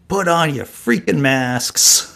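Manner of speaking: high, slow, exasperated announcer voice; lampooning the Boston phone alert; mock emergency alert. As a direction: do the alert as a fed-up official barking at the public.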